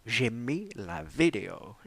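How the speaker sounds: hushed, slow whisper of the same line. Acted. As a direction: breathe it out slowly like a secret. Repeats line, then whispers it.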